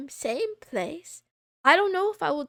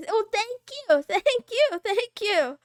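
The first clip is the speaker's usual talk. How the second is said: giggly thanks; 7 semitones higher, 5 dB louder than usual. Real, not acted. Flustered thanks to chat.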